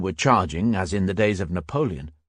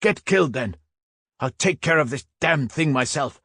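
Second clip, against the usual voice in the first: shouted; 6 semitones higher than usual. A narrator's reading. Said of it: "shouted Hals".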